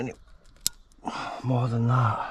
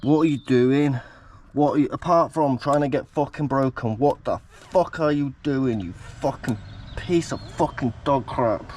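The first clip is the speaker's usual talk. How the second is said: real exasperation. Real, not acted. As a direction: snap at the broken car part in real frustration. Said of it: "properly fucking aggravated".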